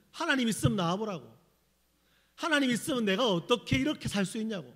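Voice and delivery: a touch of bitter challenge, pitch lifted; retold resentment at God. Teenage self challenging God to show himself, resentful. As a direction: throw a retold complaint up at God. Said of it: "그 원망이 어디 갔을까요".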